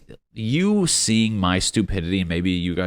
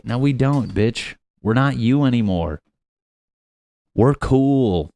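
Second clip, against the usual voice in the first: loud, higher, sassy pushback; defiant comeback; 4 semitones higher, 6 dB louder than usual. Acted. United States telling Britain off, defiant comeback. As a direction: reject them loudly and proudly. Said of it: "We're like".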